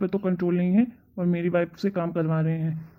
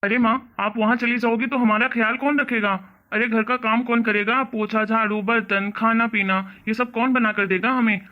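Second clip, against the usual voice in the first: alarmed protest; 3 semitones higher, 4 dB louder than usual. Acted. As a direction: protest as if left helpless. Son protests mother's departure.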